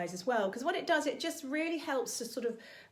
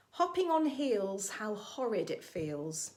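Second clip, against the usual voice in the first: slowly; 2 semitones lower, slower than usual. Shown as a demonstration. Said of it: "I'll say it slowly".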